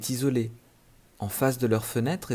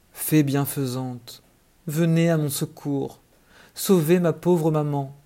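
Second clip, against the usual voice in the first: pleading, rising higher and louder; desperate cry for help; 4 semitones higher, 5 dB louder than usual. Acted. Little boy crying out to the fairy to save his mother, pleading loudly. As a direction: call out to the fairy in despair. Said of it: "il s'écria".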